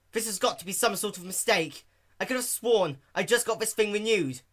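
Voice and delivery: high, loud disbelief; flustered Rainbow Dash. Acted. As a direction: insist it's a mistake. Dash in denial.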